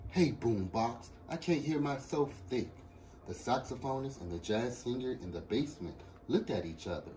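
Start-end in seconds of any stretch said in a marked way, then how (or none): 0.1-2.7 mildly shouted complaint; student calling down to a noisy neighbor. Acted.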